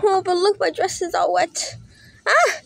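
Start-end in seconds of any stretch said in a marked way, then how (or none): 2.3-2.5 high, whiny lament; dismayed. Acted. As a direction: wail mildly over the storm's mess. Doll finds everything soaked after storm.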